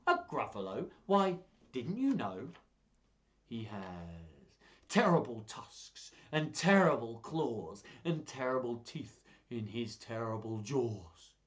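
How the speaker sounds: slow, menacing description of the monster; mouse spinning a scary tale. Acted. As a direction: spook the fox on purpose. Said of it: "do all the voices".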